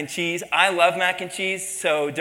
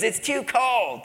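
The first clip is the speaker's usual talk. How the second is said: higher fussy whine; cranky customer; 6 semitones higher, slower than usual. Retold or imitated. A picky diner sending coffee back, in a higher whiny complaint.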